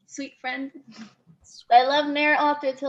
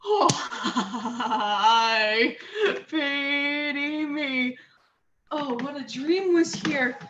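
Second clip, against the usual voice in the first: shaky laugh; much slower than usual. Acted. Relief after nightmare.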